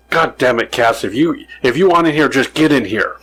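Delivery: mild mock yell, rising on want in here; half-hearted exasperated outburst at the cat; frustrated yell. Mom yelling at the cat to come in, mild mock exasperation. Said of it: "her being so frustrated".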